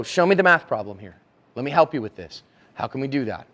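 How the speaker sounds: side-by-side helper. Acted. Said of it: "on the same side of the table as you".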